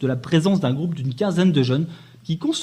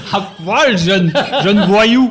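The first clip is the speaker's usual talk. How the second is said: laughing; 3 semitones higher, 6 dB louder, much slower than usual. Pretend. Mock police order, laughing.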